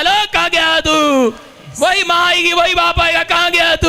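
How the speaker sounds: high, urgent pulpit cry; preacher's acted calling-out. Preacher acting in-laws looking for the blessed one, high calling. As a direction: call out as if searching for someone.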